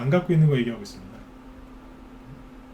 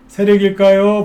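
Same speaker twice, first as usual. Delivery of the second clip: 세력일까요 thrown out louder and higher, rising; louder teasing question; 5 semitones higher, 8 dB louder, slower than usual. Acted. Host pressing viewers with a loud, higher 세력일까요. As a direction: lean in hard on 세력일까요 as a provocation.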